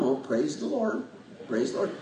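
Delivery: calm praise. Retold or imitated. Pastor imitating the calm folks in church, softly and quietly. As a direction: murmur it like a calm worshipper. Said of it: "they're just very calm".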